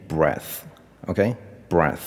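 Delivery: breath with a short e, as in "bed"; noun pronunciation. Shown as a demonstration. Teacher showing the similar word, breath with short e. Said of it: "它有另外一个字很接近的，念".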